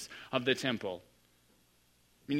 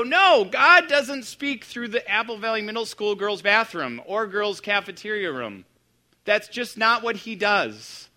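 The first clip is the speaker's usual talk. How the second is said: louder, higher know-it-all scoff; scoffing dismissal; 5 semitones higher, 5 dB louder than usual. Retold or imitated. Pastor voicing churchgoers dismissing the girl, scoffing. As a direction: brush the idea off, sure of yourself. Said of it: "We would go".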